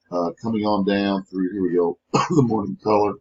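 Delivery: rough, husky voice from a head cold; hoarse cold voice. Real, not acted. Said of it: "Excuse my voice, I'm still fighting this cold thing".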